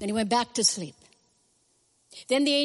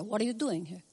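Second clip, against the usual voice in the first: lightly voiced Jewish mother, softer; 5 dB quieter than usual. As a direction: chide gently like a Jewish mother. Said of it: "I'm saying it like a Jewish mother".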